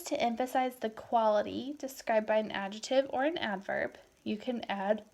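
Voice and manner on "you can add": words stretched by a yawn. Real, not acted. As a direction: talk through a yawn. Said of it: "I'm so sorry".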